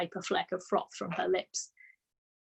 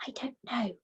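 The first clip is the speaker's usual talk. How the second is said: whisper; 5 semitones higher, 7 dB quieter than usual. A narrator's reading. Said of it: "Matilda whispered back".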